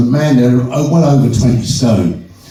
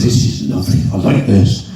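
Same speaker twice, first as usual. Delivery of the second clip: lower Irishman voice; 5 semitones lower than usual. Retold or imitated. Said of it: "and he drinks it and says".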